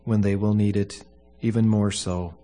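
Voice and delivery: solemn, measured funeral prayer. Acted. Pastor prays at a funeral.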